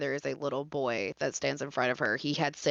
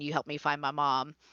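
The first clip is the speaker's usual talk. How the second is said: put-on flat, monotone voice. Retelling a lost boy's repeated plea: imitating a monotone voice. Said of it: "It was just very, like, monotone".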